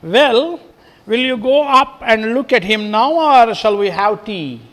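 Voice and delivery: crisp and practical, skipping past the grief; businesslike. Acted. Teacher reading Mrs Slater's line to the class, brisk and businesslike. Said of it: "in a businesslike tone".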